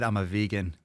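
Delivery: imitating a lisping vegan; lispy voice. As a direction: lisp the words lightly. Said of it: "in a lispy voice?".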